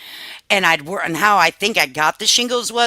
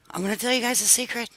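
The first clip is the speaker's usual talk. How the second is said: hushed secret; 5 semitones higher, 8 dB quieter, faster than usual. Shown as a demonstration. Telling her viewers a secret, hushed and soft. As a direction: lean in and say it like a secret.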